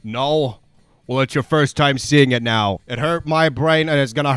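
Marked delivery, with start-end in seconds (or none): none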